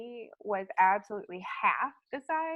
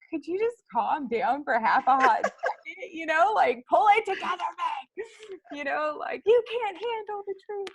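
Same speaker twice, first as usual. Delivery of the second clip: high, loud, laughing through the neighbor's scolding; laughing, near tears, louder; laughing while quoting; 9 semitones higher, 7 dB louder than usual. Retold or imitated. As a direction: quote her scolding while cracking up. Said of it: "And she's like".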